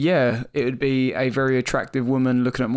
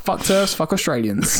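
laughing; 4 semitones higher than usual. Real, not acted. Joking outburst, laughing.

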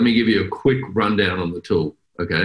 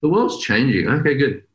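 put-on carefree kid voice; 4 semitones higher than usual. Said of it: "I like his attitude".

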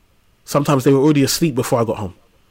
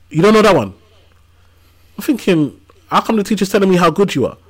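a mildly raised, incredulous "really?"; half-mock disbelief, pitched higher; surprised dad; 7 semitones higher, 4 dB louder than usual. Dad checking kids' maths in lockdown, mildly surprised and higher. Dad helping kids with homework.

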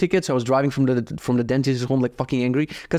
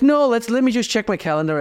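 mock excuse; 8 semitones higher than usual. Pretending to check calendar.

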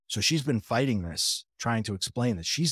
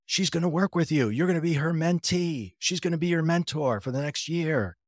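excited news; 6 semitones higher than usual. Retold or imitated. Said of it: "And she goes".

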